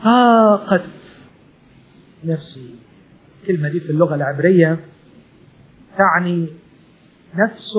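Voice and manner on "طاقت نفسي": sighing lament. Shown as a demonstration. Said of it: "عايزة آه دي".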